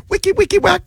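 high, squeaky turntable scratching noise; imitated record scratch. Host joking about studio turntables, imitated record scratch.

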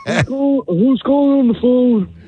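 put-on creaky old man answering the phone. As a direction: play a confused, half-deaf old man. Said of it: "I just act, like, old".

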